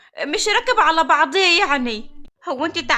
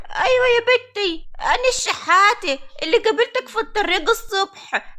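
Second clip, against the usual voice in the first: put-on old woman voice; 4 semitones higher than usual. Old beggar woman voiced by girl.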